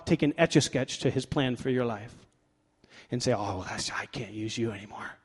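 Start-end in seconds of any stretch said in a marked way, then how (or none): 3.3-5.2 mock letdown. God imagined giving up on someone.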